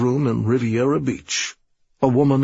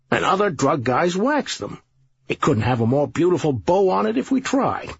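higher, brisk, self-assured sergeant; lightly voiced smug police boss; confident sergeant; 4 semitones higher than usual. Sergeant reassures the officers.

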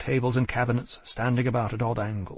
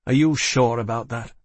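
level; 5 dB louder than usual. A narrator's reading. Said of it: "I said levelly".

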